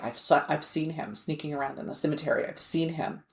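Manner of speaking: whisper-like spooky rumor; hushed kid voice sharing a secret. Retold or imitated. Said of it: "they were like".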